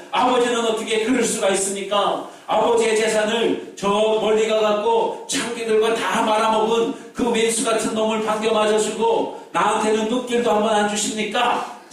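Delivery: a touch of resentful protest; understated mock outburst at the father; elder son's anger. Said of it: "큰아들이 아버지에 대고 화를 내는 거예요".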